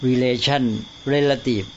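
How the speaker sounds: relation stressed on LA, relative stressed on REL; เน้นคนละที่. Shown as a demonstration. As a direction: contrast re-LA-tion with REL-a-tive. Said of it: "เน้นคนละที่ ออกเสียงคนละอย่าง". (relation เน้นพยางค์กลาง relative เน้นพยางค์แรก)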